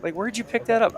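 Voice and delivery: high-pitched mock bafflement; incredulous parents. Retelling parents questioning a child's pronunciation, mock incredulous.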